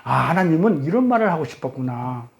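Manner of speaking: understated awe with a long dawning "ah"; delighted realization. Acted. Preacher voices a reader grasping God's intent, quietly awed. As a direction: act out the meaning sinking in. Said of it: "희열을 느껴요".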